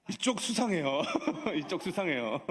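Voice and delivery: amused accusation broken by laughter; playful, laughing suspicion; laughing tease. Real, not acted. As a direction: tease the crowd through a chuckle. Teasing the congregation, laughing.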